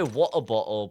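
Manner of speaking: token attempt at a British accent. Shown as a demonstration. Streamer asked for a British accent, half-hearted British. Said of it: "Do a British accent?".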